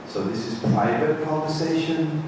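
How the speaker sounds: soft, hushed remark; quiet private tone. Shown as a demonstration. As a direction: keep it between us at the table. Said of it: "talking like this".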